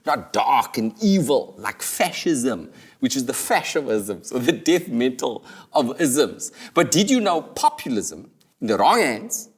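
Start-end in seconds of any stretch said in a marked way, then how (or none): 0.1-6.5 dark and evil. Acted. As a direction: make it sound menacing.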